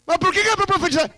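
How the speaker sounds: high, fast incredulous asking; high quick mock question. Profeta pergunta a Deus, voz alta e rápida. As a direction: squeak it out in disbelief.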